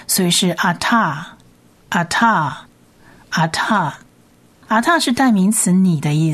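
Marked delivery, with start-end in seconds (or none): 0.5-3.9 ata，ata，ata said very slowly, each one apart; slow word demo. Shown as a demonstration. Teacher models the whole word for students. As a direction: say ata，ata，ata slowly, three times.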